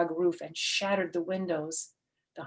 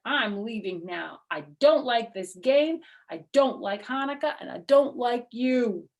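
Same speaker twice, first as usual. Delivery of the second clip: petulant goblin, higher and louder; sulking goblin; 4 semitones higher, 5 dB louder than usual. Acted. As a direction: stamp each "don't" like a sore loser. Sore loser goblin storms off.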